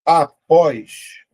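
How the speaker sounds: APÓS loud, split into a-pós; APÓS in two firm, spaced beats; syllable by syllable. Shown as a demonstration. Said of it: "vou separar".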